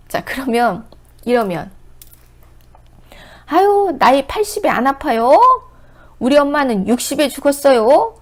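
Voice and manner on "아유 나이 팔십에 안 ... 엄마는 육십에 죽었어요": dismissive caregiver. Retold or imitated. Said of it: "이러면 되겠어요?".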